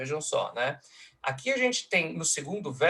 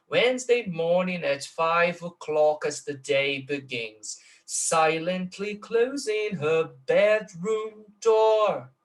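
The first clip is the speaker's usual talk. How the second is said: slow beats on "Wednesday morning", then higher, longer "bedroom door"; metrical recitation, growing weightier; 3 semitones higher, 3 dB louder, much slower than usual. Shown as a demonstration. Lecturer contrasting two verses, measured first, then high drawn-out weight on "bedroom door". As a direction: scan the verses, stretching "bedroom door" heavily. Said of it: "vejam o peso, vejam a diferença".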